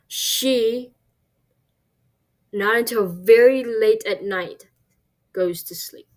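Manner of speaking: literal word-by-word rendering, with a long pause after "She"; literal word order. Shown as a demonstration. Teacher showing students the literal translation, stiff and word for word. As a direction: read "She, not until very late at night, goes to sleep" stiffly, word for word. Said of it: "translate this into English".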